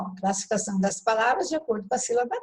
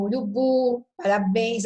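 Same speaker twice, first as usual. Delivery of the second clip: urubu and parabéns stressed on the last syllable; tonic syllable demo. Shown as a demonstration. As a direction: land on the end of urubu, then of parabéns. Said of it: "só tô mostrando a sílaba tônica". (urubu e parabéns com a última sílaba forte)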